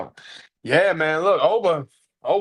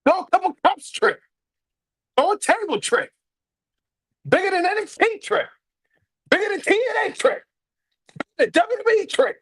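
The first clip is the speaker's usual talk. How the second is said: climbing higher with each nickname; building hype; 9 semitones higher than usual. Real, not acted. Hyping up his favourite wrestler, rising with each name.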